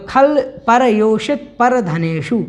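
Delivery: said slowly, syllable by syllable; slow down so learners can copy "खल परयोषित परधनेषु"; careful teacher's model reading; slow model pronunciation. Shown as a demonstration. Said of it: "इसको एक दो बार बोलेंगे".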